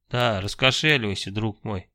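a playful mock-villain hiss; villainous hiss. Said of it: "опять злодейски прошипел я".

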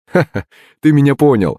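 light acted chuckle up front; laughing. A narrator's reading. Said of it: "засмеялся телохранитель". (со смешком)

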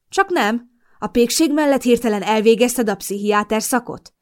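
sneering sarcasm. Acted. Mason mocks his girlfriend about her psychiatry know-how, sarcastic. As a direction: throw the question at her sarcastically. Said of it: "vetette oda gúnyosan".

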